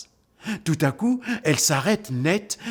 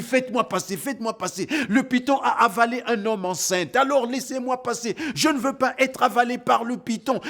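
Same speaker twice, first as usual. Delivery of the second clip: pleading panic; 10 semitones higher than usual. Acted. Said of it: "J'ai dit".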